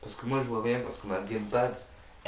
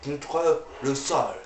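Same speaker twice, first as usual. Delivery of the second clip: slow, half-joking anger; mock angry; 4 semitones higher, slower than usual. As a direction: play at losing your temper. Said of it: "Je m'énerve".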